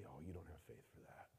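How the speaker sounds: very low, hushed insinuation; whispering in ear. Acted. The enemy planting doubt in a believer's ear, hushed. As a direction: murmur doubt right into the ear. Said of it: "to whisper in my ear and say".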